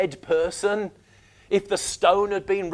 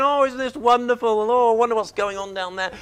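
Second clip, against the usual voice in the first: mock calm; 3 dB quieter, faster than usual. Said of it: "he doesn't sit there going".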